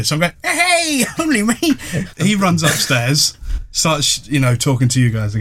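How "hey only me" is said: high, bad Mancunian accent with a laugh; cheery Mancunian greeting, badly faked. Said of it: "some weird Mancunian voice".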